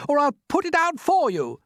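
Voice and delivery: high, loud threat; shouted threat. Acted. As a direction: shout the warning up at her. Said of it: "shouted the centipede".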